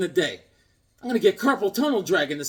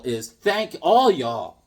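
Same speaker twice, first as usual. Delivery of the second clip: slow South Carolina drawl; slower than usual. Shown as a demonstration. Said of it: "okay, y'all is, in plural".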